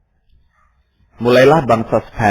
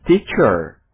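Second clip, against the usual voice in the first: British teacher; 3 dB louder than usual. Shown as a demonstration. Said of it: "Tetapi orang Inggris teacher".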